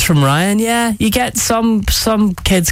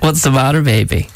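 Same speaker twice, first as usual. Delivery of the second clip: put-on sing-song baby talk. Shown as a demonstration. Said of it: "That's what you're supposed to say".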